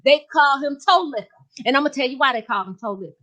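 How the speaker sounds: sassy gossiping lady voice, lightly voiced; Miss Jazzy character voice. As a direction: play a brassy gossip.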